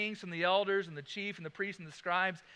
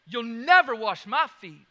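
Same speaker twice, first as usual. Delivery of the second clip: loud mock refusal; 3 semitones higher, 13 dB louder than usual. Voicing Peter's refusal.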